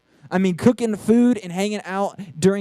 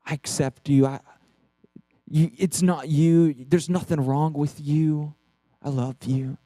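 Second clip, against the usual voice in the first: tender father; 3 semitones lower than usual. Retold or imitated. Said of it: "He was saying things like".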